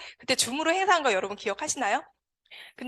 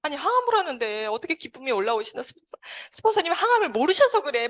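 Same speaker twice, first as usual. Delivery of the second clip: retold incredulous grumble, climbing higher; indignant inner protest; 3 semitones higher than usual. Patient silently objecting to the sponsor's joy, rising in protest. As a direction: build to a high-pitched, mildly indignant objection. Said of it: "속으로 막 그렇게 생각을 했어요".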